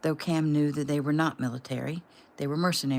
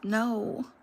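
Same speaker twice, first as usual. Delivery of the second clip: tearful; 5 semitones higher than usual. Acted. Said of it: "huge sobs welled up".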